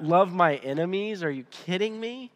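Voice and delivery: mock disbelief, pitch climbing at the end; incredulous scoffing. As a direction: imitate a sceptic balking at it. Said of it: "kinda rolled their eyes and were like".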